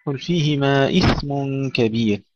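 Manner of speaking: إثم with a breathy, airy ث and no bounce on it; whispered soft TH. Shown as a demonstration. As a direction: let the ث in إثم hiss softly. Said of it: "الثاء فيها همس وليس فيها قلقلة".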